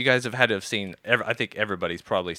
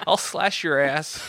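slow menacing bear; 6 semitones higher, slower than usual. Retold or imitated. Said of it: "Imagine a bear being like".

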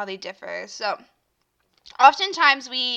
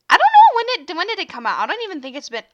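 talking through hiccups; hiccuping between words; 7 semitones higher, 8 dB louder, faster than usual. Real, not acted. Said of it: "I have the hiccups".

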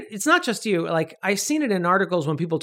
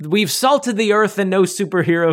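louder, dramatic studio-executive decree; mock grand pronouncement; 5 dB louder than usual. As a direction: declare it like a doom-laden edict. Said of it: "people were like".

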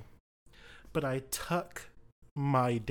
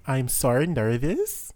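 louder mock accent with a rising nervous; Swedish-ish demo; 6 dB louder than usual. Shown as a demonstration. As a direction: show how it should sound. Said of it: "that would be".

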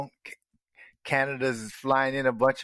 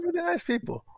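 mock polite Canadian. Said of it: "mocking polite Canadians".

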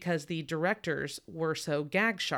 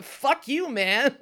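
much higher, loud, gleeful; laughing insult; 9 semitones higher, 8 dB louder, much slower than usual. Retold or imitated. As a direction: hurl it with glee. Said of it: "I just love her being like".

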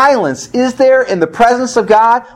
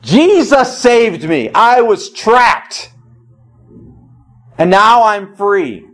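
joyful testimony; 3 semitones higher, slower than usual. Retold or imitated. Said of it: "she was saying".

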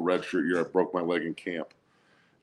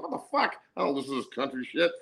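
retold disbelief; 5 semitones higher, 4 dB quieter, faster than usual. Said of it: "I'm like".

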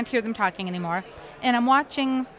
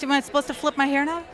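teasing laugh; 4 semitones higher, faster than usual. Retold or imitated. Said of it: "I was like".

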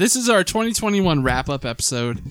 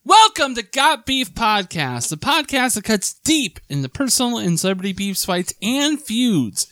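podcast intro voice; 4 semitones higher than usual. Acted. Podcast intro, announcer read.

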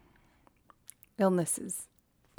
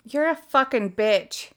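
insulting voice assistant; 4 semitones higher, slower than usual. Real, not acted. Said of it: "Your language".

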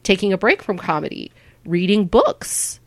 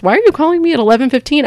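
incredulous friend; 7 semitones higher, much faster than usual. Retold or imitated. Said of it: "He goes".

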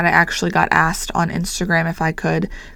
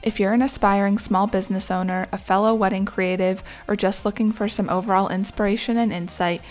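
scripted, welcoming show introduction; podcast intro read; 3 semitones higher than usual. Acted. Business owner introduces her guidebook podcast to listeners, scripted intro read. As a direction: read it as a polished podcast opener.

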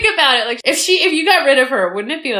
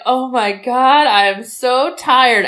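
mock tired; slower than usual. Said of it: "I'm like".

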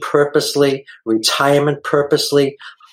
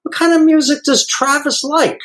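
gentle question. Retold or imitated. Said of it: "And I says".

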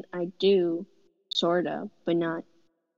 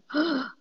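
mock gasp; 8 semitones higher than usual. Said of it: "And I was like".

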